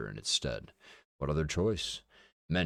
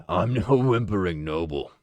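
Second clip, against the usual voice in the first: louder gruff growl; 2 semitones higher, 8 dB louder than usual. A narrator's reading. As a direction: snarl it with contempt. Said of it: "he growled".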